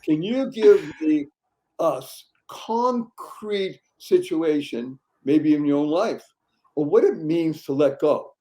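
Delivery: lightly voiced doubting challenger, slow; mock skeptic. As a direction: play the unconvinced listener, lightly. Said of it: "I'm gonna challenge you and say".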